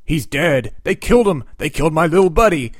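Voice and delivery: loud, hammed-up anger, fast at the end; mock rage over a fallen buddy; pissed off. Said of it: "So Ben is pissed".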